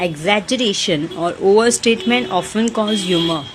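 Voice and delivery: slow, clear reading of the sentence; slow reading aloud. Shown as a demonstration. Teacher rereading the sentence slowly for students. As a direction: read it slowly for the class. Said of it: "third question पढ़ रही हूँ मैं".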